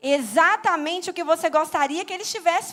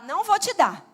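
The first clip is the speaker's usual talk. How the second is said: loud, emphatic strict-parent refusal; mock stern parent, pitched up; acted parental scolding; 7 dB louder than usual. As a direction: lay down the law to a small child.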